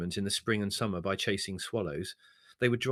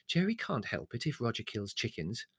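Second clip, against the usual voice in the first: placating. Acted. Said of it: "said Mother placatingly".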